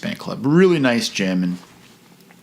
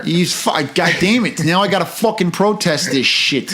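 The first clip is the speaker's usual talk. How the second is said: angry Chicago rant; 8 semitones higher than usual. Retold or imitated. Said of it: "the Chicago accent really lends itself to anger".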